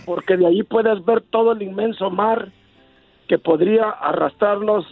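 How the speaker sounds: slow tender declaration of love; romantic recital. Acted. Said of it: "unas palabras que salgan del corazón".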